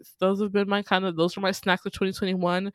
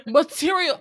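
repeating louder and sillier; 9 semitones higher, 6 dB louder than usual. Retold or imitated. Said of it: "it gets louder every time he says".

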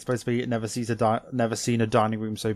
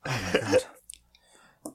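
tired; much slower than usual. Real, not acted. Exasperated at own slip.

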